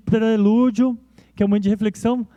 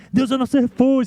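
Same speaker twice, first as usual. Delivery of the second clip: strong, triumphant declaration; 4 semitones higher than usual. Shown as a demonstration. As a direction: proclaim it like a battle victory song. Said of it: "cantado com muita entonação, muito forte". (proclamação forte e triunfante, como grito de guerra)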